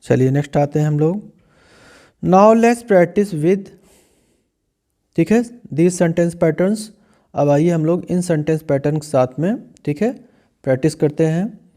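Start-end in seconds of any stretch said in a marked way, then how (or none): 2.2-6.8 slow, careful model sentence for students to repeat. Shown as a demonstration. English teacher reading a model sentence slowly for students. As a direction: say each word slowly and clearly for the class. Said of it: "reading the heading slowly".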